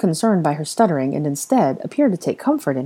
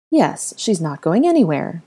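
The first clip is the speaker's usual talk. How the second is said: reassuring. Acted. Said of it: "Molly assured him".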